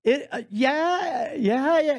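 unconvinced. Real, not acted. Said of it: "You sound like it's not rad".

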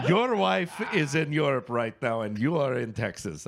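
put-on Indian accent. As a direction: imitate an Indian airline agent spelling out the situation. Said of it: "okay, I will do the accent".

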